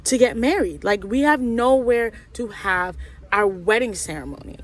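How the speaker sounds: exasperated complaint, leaning on nowhere; upset, emphatic replay of an argument; retold upset. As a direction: retell it as an indignant protest. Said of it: "I was so upset".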